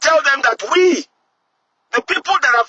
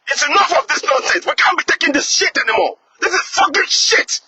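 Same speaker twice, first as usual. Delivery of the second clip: rising, higher-pitched fury; real anger; 4 semitones higher than usual. Real, not acted. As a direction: spit it out, really pissed off. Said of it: "really pissed right now".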